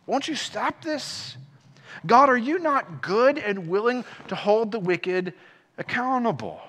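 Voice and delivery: acted-out appeal to God, understated; Habakkuk. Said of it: "Habakkuk is crying out".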